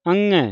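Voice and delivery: ਅੰਗੈ with "ng" sounded in the nose; nasal ਅੰਗੈ. Shown as a demonstration. Teacher demonstrating pronunciation, nasal ਅੰਗੈ. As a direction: send the middle of ਅੰਗੈ through the nose. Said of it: "ਨੱਕ ਦੇ ਵਿੱਚ".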